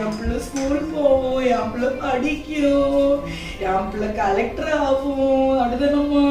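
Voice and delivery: doting sing-song. Acted. Mother dreaming aloud to her little daughter, doting sing-song.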